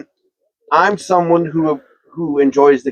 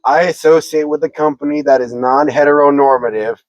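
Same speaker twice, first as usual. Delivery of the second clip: prim precise elocution. Pretend. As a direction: spell it out properly. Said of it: "I will stop being a smart ass".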